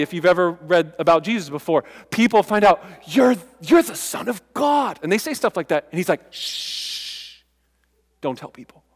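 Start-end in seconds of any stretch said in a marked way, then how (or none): 3.1-5.0 high, slow, shouted acclaim; excited proclamation. Acted. Crowd proclaiming Jesus. 6.3-8.8 whispered shush, much softer; soft whispered plea for secrecy; hushing whisper. Acted. Jesus hushing the crowd.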